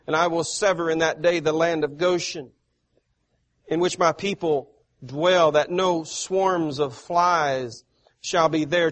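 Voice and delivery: loud, declaiming preacher voice, easing off at the end; forceful scripture reading. Acted. Preacher reading God's words to the congregation, loud and declaiming. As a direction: proclaim God's words from the pulpit. Reads the promise about Goshen.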